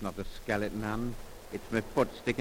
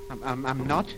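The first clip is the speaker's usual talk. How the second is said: stammering with fear; 3 semitones higher, 6 dB louder than usual. Acted. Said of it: "you're all trembling".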